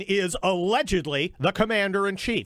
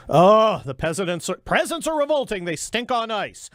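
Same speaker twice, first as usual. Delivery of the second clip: Mel Brooks quote; 2 semitones higher than usual. Retold or imitated. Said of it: "says, uh, Mel Brooks".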